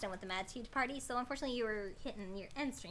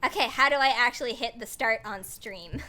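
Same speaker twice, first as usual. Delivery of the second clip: mock confused self; 9 dB louder than usual. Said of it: "and I'm like".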